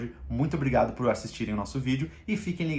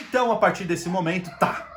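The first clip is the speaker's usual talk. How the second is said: higher, louder attention-grabbing call; raised voice; 7 semitones higher, 5 dB louder than usual. Retold or imitated. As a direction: jolt the room back to you. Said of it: "eu aumentei o meu tom de voz". (voz mais alta e aguda para chamar a atenção)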